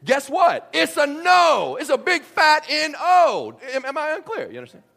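high, loud, slow emphatic refusal. Real, not acted. Flatly refusing a request.

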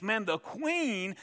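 high, loud, self-satisfied gloating; proud gloating thoughts. Retold or imitated. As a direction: puff up like a proud man rising in rank. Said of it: "He thinks".

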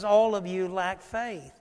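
soft, slow pleading; gentle plea. Retold or imitated. Jesus pleading softly with his disciples. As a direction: coax them gently to believe. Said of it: "he says".

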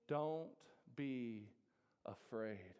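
gentle Jesus. Acted.

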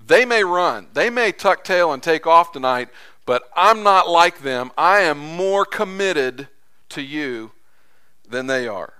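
loud, bold boast in front of everyone; brash declaration. Retold or imitated. Peter boasting loudly before the other disciples. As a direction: proclaim it brashly for the whole group to hear. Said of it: "in pure brash Peter fashion".

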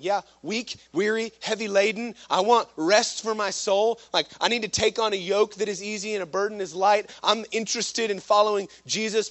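insistent, building pulpit fervor; fervent plea. Acted. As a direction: preach it as an earnest declaration of need. Voices an eager would-be follower.

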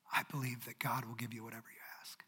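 low, whispered statement of trust; whispered belief. Acted. Martha's trust in God whispered to Jesus. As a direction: hush it like a prayer. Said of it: "repeated in whisper".

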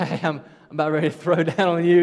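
loud, hammed-up mock snapping; mock rampage with a laugh in it; Godzilla-like outburst. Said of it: "came out like Godzilla".

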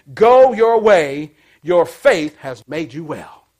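slow, drawn-out blessing; slow pronouncement. Acted. Preacher to congregation, slowly voicing Jesus' blessing. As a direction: stretch each word out.

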